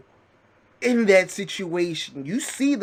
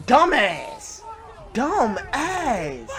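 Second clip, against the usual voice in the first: yelled insult; 5 semitones higher, much slower than usual. Real, not acted. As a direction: bark it at the idiot driver. Scolding a driver on screen.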